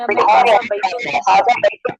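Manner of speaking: हाजा बैतुन very slow and loud, stretched out; listen carefully. Shown as a demonstration. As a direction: drill हाजा बैतुन loudly and slowly for the class to hear. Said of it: "अब और से सुने". (ध्यान से सुनाने के लिए धीमा, ज़ोरदार उच्चारण)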